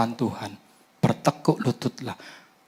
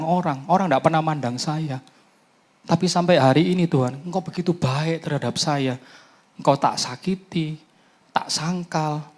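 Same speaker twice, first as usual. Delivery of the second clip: retold prayer; 5 semitones higher than usual. Preacher recounts his tearful prayer.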